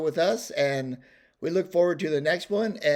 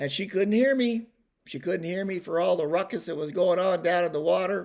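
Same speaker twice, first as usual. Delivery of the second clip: plain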